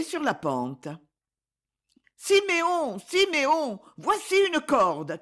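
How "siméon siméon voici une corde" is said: high, loud call, drawn out slowly; crying out. A narrator's reading. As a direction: call his name down into the hole, slowly. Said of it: "cria-t-elle".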